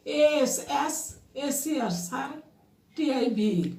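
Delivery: measured letter-by-letter spelling; spelling by syllables. Shown as a demonstration. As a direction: spell it slowly in syllable groups. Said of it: "syllable ভাগ করে করে তোমরা উচ্চারণ করো". (সিলেবল ভাগ করে বানান)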